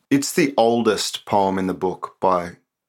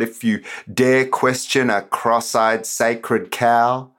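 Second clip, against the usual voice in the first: spoken word performance; 3 semitones higher, slower than usual. Acted. Poet performing his political poem for the podcast, declamatory and sarcastic.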